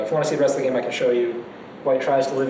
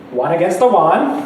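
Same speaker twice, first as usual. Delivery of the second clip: put-on Chinese accent; 2 semitones higher, 5 dB louder, slower than usual. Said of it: "try to say it like he does with his thick Chinese accent".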